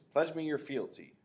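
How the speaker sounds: high, loud and slow royal decree; hammed-up lordly demand; mock regal command. A narrator's reading. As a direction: command like a little king. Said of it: "He goes".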